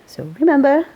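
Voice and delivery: a hint of Welsh, slowing into the final pun; Welsh accent. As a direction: sign off the radio show in a light Welsh accent. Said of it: "His Welsh accent carried the pun".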